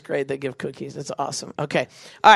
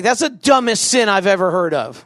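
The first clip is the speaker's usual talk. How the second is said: higher, louder mock disbelief; exasperated priest; 4 semitones higher, 5 dB louder than usual. Priest answering a silly confession, mock exasperated. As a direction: scoff in exaggerated disbelief. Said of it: "he's gonna be like".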